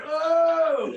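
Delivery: sudden, high loud "oh!"; imitated yell. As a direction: belt out a startling cry in the night. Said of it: "the yelling in the room".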